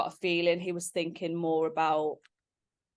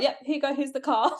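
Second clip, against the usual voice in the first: high, louder eager mum voice; 8 semitones higher, 3 dB louder than usual. Retold or imitated. Fiancée mimics his mum cheerfully paying for the ring, high and eager. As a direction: hand over the card brightly, higher.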